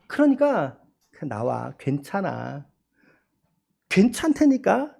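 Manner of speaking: soft, gentle coaxing to come out; tender God. Retold or imitated. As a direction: coax a hiding child out, softly. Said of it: "라고 하는 음성으로".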